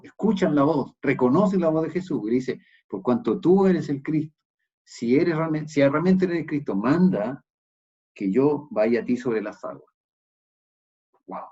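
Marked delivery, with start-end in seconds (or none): 2.9-9.9 "Por cuanto tú eres el Cristo" said loud and raised, pleading; urgent plea. Acted. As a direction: beg the Lord eagerly from the boat. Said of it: "más que dice".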